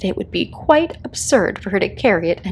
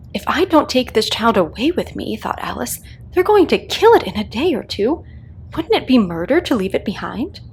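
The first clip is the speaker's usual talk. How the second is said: put-on Alice fretting higher over the baby; young Alice, worried; 4 semitones higher than usual. A girl carrying a baby, afraid it will be killed, worried. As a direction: let her worry rise as she speaks. Alice voiced in read story.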